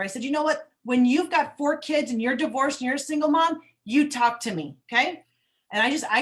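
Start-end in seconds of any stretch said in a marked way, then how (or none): 0.2-5.2 louder, higher, heated comeback; single mom telling off a critic in the store, louder and angry; angry retort. Retold or imitated. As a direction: snap back at the stranger, fired up. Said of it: "I just got so angry with her".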